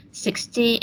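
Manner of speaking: SIX-ty, weight on the first syllable; stress on first syllable. Shown as a demonstration. Student presenter showing classmates number stress, sixty stressed on the first syllable. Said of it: "numbers that ending in T are stressed on the first syllable".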